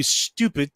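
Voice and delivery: "stupid" opened on a held hiss; imitated long-S pronunciation; extended S. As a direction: draw out the S of "stupid". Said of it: "learned how to say stupid".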